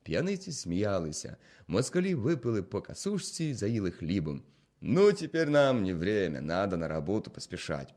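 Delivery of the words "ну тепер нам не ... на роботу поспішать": loud, breezy, mocking goodbye; bow out with a smirk; mock-polite farewell. Soldiers mockingly bidding the innkeeper farewell.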